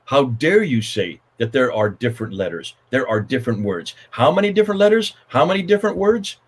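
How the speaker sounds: indignant Hatun. Retold or imitated. Retelling Hatun confronting him, mild indignation rising. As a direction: challenge him, rising into outrage. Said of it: "speaking as every Muslim".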